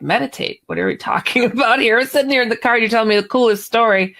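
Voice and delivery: incredulous. Retold or imitated. Telling her friend off for meditating mid-story, incredulous. Teller acts out disbelief at friend.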